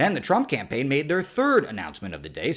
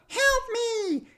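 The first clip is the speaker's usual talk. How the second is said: tiny fly voice. Acted. Fly voice crying for help.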